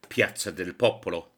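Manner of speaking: Città del Vaticano said the Italian way, rolled and sung; Italian place names in an Italian accent. Acted. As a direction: show off a fine Italian pronunciation. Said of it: "in a fine Italian accent".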